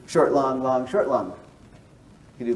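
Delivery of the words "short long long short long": quick SHORT, held LONG, in rhythm; rhythmic recital with stretched LONGs and brief SHORTs; mixed beat pattern. Shown as a demonstration. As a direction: tap out the meter, LONG twice as long as SHORT. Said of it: "a long syllable takes two beats".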